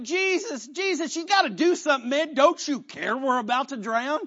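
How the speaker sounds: high, urgent mock-panicked plea; acted panic. Disciples beg Jesus to wake in the storm, acted panic. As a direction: plead like someone half-freaking out. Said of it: "they're freaking out".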